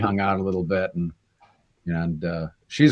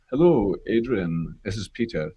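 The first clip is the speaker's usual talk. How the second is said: Peter Capaldi. Retold or imitated. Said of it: "I always remember how it started".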